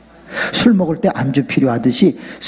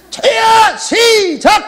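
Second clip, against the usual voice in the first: high, loud, drawn-out rallying cry; demonstrated prayer shout; 4 dB louder, much slower than usual. Shown as a demonstration. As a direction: lead the crowd in a full-voiced shout. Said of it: "한번 시합을 해볼까?".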